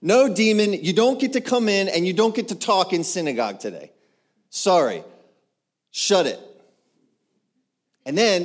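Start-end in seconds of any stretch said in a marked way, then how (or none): 0.0-6.4 loud, high refusal; emphatic commanding dismissal; stern peacemaker. Acted. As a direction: bar the demon's way forcefully. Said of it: "That's what peacemakers do".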